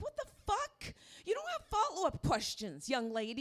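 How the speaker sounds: high incredulous what the fuck, then scolding; mock-parental outrage; indignant outrage. Comic to the teen girl, indignant scolding.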